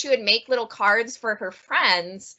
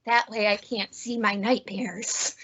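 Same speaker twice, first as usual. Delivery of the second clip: soft, slow guinea pig line; lightly voiced guinea pig, slow and softer; 6 dB quieter than usual. Presenter reads out the guinea pig's punchline, soft and slow. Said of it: "the guinea pig says".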